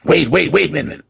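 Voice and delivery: high, loud repeated wait; retold guest crying wait; urgent mock call. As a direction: imitate her frantic call. Woman calling him back again.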